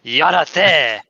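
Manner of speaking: hammed-up Japanese accent, forceful; mock Japanese accent. Shown as a demonstration. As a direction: bark "Yarate" like exaggerated Japanese, with a tapped r. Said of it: "I make it sound like I'm Japanese".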